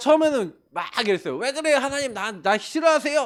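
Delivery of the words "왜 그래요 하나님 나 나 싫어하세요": arguing, insistent protesting tone. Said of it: "하고 막 그 따졌어".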